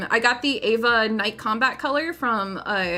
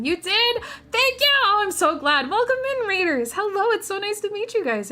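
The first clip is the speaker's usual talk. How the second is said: high bubbly welcome voice; cute anime streamer; 7 semitones higher than usual. Acted. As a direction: squeal a bright greeting to the raiders. Excited raid greeting in cute voice.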